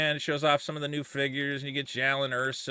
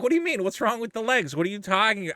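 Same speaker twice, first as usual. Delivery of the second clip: mock confused; 5 semitones higher than usual. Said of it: "And I'm like".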